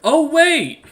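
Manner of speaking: loud, high mock realization; big, high-pitched sarcastic exclamation; mocking outburst. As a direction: shout it as a taunting jab. Taunting another player's character.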